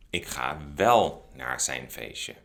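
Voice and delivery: slow, leaning on "wel" to contradict; slow "Ik ga wel" with weight on "wel"; emphatic wel. Shown as a demonstration. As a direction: correct them firmly. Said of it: "to emphasize that the other person is wrong".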